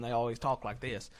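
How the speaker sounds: lightly imitated Southern twang. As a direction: put a hint of Southern twang on it. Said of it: "this twang in their voice".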